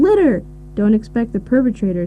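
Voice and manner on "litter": a high, hammed-up mock yell of the one word; imitating a panicked citizen crying out; mock scream. Someone running to a policeman, mock screaming high. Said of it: "running to the nearest policeman screaming".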